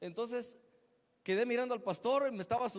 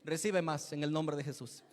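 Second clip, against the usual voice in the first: preacher's call; 3 semitones lower, 5 dB louder than usual. Retold or imitated. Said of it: "él decía".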